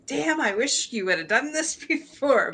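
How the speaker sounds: half-laugh the wish; laughing regret. Retold or imitated. Host teasing her guest about his project, laughing. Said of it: "I was like".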